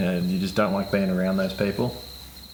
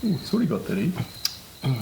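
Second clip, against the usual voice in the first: high-pitched mock Canadian "sorry about that, eh?"; a silly Canadian accent, pitched up; 6 semitones higher than usual. Co-host shows the Canadian accent, pitched high. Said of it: "You gotta drop your I Q a bit".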